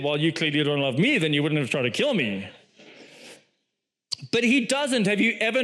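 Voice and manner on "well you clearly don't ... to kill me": lower-pitched mock comeback; imagined retort. What Samson should have said to Delilah, mock retort. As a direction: throw the accusation back in a lower voice. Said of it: "he should have said".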